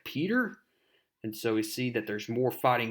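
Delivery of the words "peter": high, rising question; acted disbelief, pitched up at the end; questioning Harry. Comic character recognizing his friend, high and questioning. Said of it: "And he's like".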